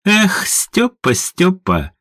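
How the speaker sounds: slow sighing tut-tut; mock scolding. A narrator's reading. Madam mock-scolds Стёпа, slow and sighing. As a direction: wag a finger with the voice. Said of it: "погрозила мадам пальцем".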